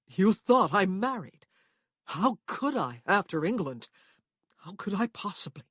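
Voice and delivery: lightly voiced startled woman; Prue's voice. A narrator's reading. Prue to Rowan, caught out by her mistake.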